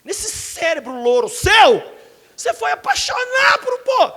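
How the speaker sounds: loud, high mock outrage, slow on the middle; exasperated shout. Pastor scolding girl in love with married man, exasperated shout. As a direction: scold her in disbelief. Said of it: "Aí eu viro pra menina e falo assim".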